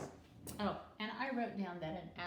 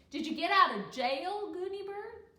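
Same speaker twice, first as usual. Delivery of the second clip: put-on louder, higher child question; boy asking; 9 semitones higher, 11 dB louder than usual. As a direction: ask eagerly like a young boy. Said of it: "he asked".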